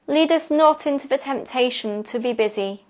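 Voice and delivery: measured, prayer-like poem reading; prayer-poem recitation. Acted. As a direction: recite it as a prayer, pausing after each phrase. Recites reworked Lord's Prayer poem.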